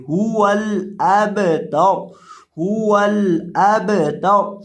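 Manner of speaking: अबतर with a bouncing echo on the ब; echoing qalqala in अबतर. Shown as a demonstration. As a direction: shake the ब in अबतर. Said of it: "बा के ऊपर कलकला करके पढ़ेंगे".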